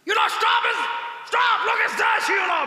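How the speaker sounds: loud excited English call to stop; shouted foreign tourist. Retold or imitated. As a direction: yell like a startled foreign visitor. (ચીસ પાડતો વિદેશી)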